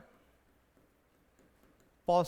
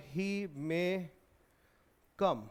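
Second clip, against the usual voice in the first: doubtful tone; 2 semitones lower, much slower than usual. Shown as a demonstration. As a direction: say it as if he probably won't come. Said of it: "मेरे बोलने के लहजे से पता चल रहा है".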